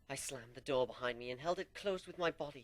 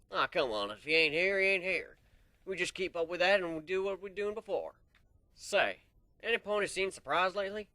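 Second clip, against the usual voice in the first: a touch of a brash stallion; 5 semitones higher, 6 dB louder than usual. Acted. Earth pony character speaks aloud.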